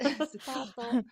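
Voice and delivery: "Sutato" drawn out slowly, sound by sound; slow teaching demonstration of "Sutato"; slow pronunciation. Shown as a demonstration. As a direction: stretch "Sutato" so each sound is heard. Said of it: "I say it a bit slow".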